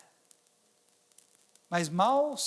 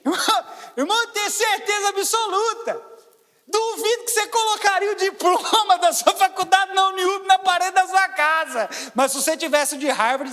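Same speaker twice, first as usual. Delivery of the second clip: much higher and louder, driving the point home; preaching at full force; 9 semitones higher, 8 dB louder than usual. Acted. Pastor pressing the church about diplomas on walls, fervent and loud. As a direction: preach it hard to the congregation.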